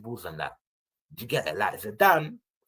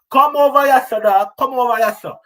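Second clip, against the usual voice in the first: loud, higher hammed-up summons; louder playful come-over-here call; mock calling out; 9 semitones higher, 12 dB louder than usual. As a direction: beckon him over like a street hustler. Calling a manager over to Arsenal.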